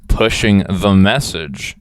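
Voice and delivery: slow, low and very loud; hammed-up low booming voice; mock-ominous slogan. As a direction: boom it out slowly, deep and mocking. Mocking a slogan, theatrically.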